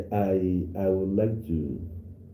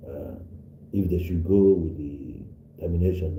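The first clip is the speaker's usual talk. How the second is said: ordinary talk, nothing marked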